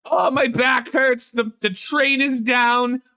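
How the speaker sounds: high-pitched complaining grandma impression; old Jewish grandma. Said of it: "they are an old Jewish grandma".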